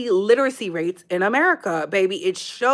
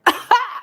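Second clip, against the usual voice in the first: a sudden high laugh at her own point; burst of laughter; 13 semitones higher, 4 dB louder than usual. Real, not acted. Laughing at critics while telling her viewers.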